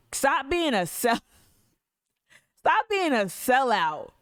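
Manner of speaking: slow, high and punched, each word landed; slow emphatic insult. Real, not acted. Slow deliberate scorn at the city council. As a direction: spell out the insult slowly to the council. Ranting at council over sellouts.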